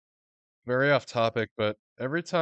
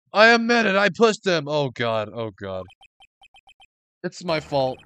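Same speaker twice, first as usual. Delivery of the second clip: much higher, shouted guilty confession; anguished confession; 9 semitones higher, 12 dB louder than usual. Acted. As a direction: break down and shout it.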